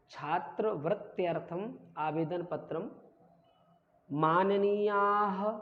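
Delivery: "छात्रवृत्त्यर्थम आवेदन पत्रम माननीयाः" read out slowly, word by word; slow dictation of "छात्रवृत्त्यर्थम आवेदन पत्रम माननीयाः"; pronunciation demo. Shown as a demonstration. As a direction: draw out "माननीयाः" to a final "ha". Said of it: "इसका उच्चारण कर लेते हैं".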